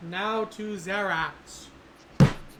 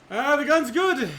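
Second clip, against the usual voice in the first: higher, slightly raised character voice; a hint of a character calling over; lightly voiced Finn; 5 semitones higher, 4 dB louder than usual. Game master as Finn reporting back, lightly voiced. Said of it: "Finn looks at you and says".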